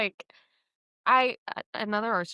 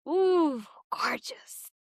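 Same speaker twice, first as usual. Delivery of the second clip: high, airy mock catcall; catcaller; 6 semitones higher, much slower than usual. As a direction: imitate a wasted admirer, sliding up then whispery. Retold drunk young man's catcall.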